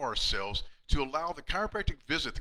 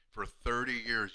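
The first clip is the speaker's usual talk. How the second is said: "for thirty years" again slowly, lower; repeated with feeling; 3 semitones lower, 3 dB quieter, slower than usual. Retold or imitated. Patient repeating his thanks to the doctor, slow and soft. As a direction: echo "for thirty years" softly, still moved.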